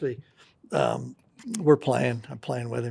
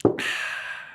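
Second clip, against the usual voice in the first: long heavy sigh before the punchline; dramatic sigh; 5 dB quieter than usual. Retold or imitated. Clint sighing to a lonely bar companion before answering. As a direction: sigh as if gathering yourself. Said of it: "Dramatic pause".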